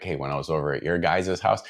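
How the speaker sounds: put-on understated Midwest accent, easy delivery; milder Chicago accent. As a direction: keep the Chicago accent light. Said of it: "it was definitely like".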